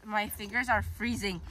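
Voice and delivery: shivering from the cold; drenched and cold. Real, not acted. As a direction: numb fingers, cold and wet. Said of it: "I can't feel my fingers anymore".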